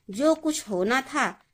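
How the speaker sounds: जो कुछ होना था said slowly, held before the comma pause. Shown as a demonstration. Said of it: "अल्प विराम थोड़ा सा रुकने के लिए".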